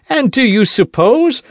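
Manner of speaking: high, loud cut-off protest; indignant protest. Acted. D'Artagnan protesting to Aramis, high and loud. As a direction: bristle and get cut off.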